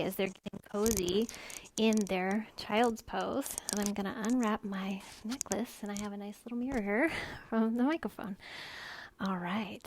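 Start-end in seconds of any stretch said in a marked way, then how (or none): 5.8-9.8 crackling mic static; crackly microphone buzz; crackly usb mic. Real, not acted. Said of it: "Oh no, my mic is crackling".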